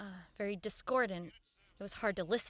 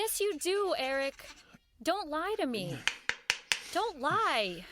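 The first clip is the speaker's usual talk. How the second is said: higher, pressing don't-lie insistence; firm confrontation; 5 semitones higher, slower than usual. Acted. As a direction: corner him, don't let him dodge. Helen confronts Eric about lying.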